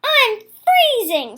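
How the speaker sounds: slow, high plaintive complaint; shivering frog. Acted. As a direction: draw it out, shivering with cold. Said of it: "said Frog".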